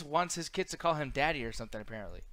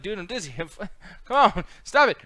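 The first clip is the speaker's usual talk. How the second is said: rising to a higher, louder whine; mock whiny complaint; 5 semitones higher, 9 dB louder than usual. Mocking Kevin Owens being shuffled between shows with a whiny plea. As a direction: whine like you're being spun around. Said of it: "Kevin Owens was like".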